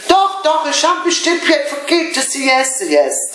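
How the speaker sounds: high, hurried mock excuses; imitating colleague. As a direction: squeak out a flustered excuse, pitched well up. (nachgeahmte Kollegin, viel höher und aufgeregt)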